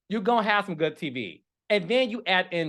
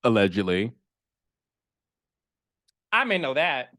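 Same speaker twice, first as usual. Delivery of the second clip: coy aside; 7 semitones lower than usual. Acted. Coy aside after gossip.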